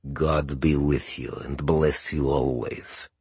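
heavy, drink-thickened voice; thick-accented older man. Acted. Pavlikovsky's blessing.

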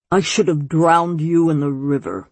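lightly voiced scowling old man. A narrator's reading. Former Grand Elder to the girl he should have drowned, scowling. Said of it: "he said to Luna with a scowl".

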